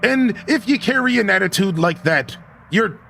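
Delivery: a hint of a hearty sea dog; scottish laird. Reads old sea captain's lines.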